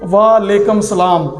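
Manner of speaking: "وعلیکم السلام" slurred as walekam salam; wrong pronunciation. Shown as a demonstration. Teacher showing the mistake that changes the meaning, slurred. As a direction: mumble "وعلیکم" fast. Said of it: "ترجمہ غلط ہو جاتا ہے".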